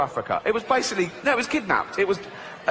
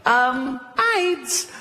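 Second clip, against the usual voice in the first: goat voice; 8 semitones higher than usual. Retold or imitated. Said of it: "He went".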